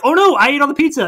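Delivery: high, loud squeaky cartoon panic. Retelling a film to a friend, squeaking like the sheep. Sheep voiced in retold movie.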